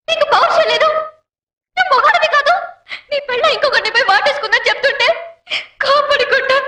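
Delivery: high, indignant tirade; angry scolding. Acted. Wife berating her husband for his lack of pride, high and indignant.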